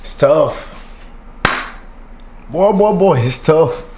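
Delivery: fighting back real tears over a lost father; choked up. Real, not acted. Vlogger remembering his own dad, voice choking up. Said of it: "I don't wanna get emotional".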